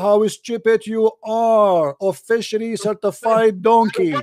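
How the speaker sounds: drawn-out, slow sneering repeat; slow mocking taunt. Host slowly taunting the caller on air, drawn-out sneer. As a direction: stretch each word out to mock him.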